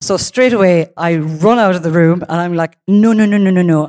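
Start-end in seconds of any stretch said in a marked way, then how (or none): 2.9-3.9 rapid string of mock-panicked refusals; retold, mildly panicky protest. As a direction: fire off the refusals in alarm.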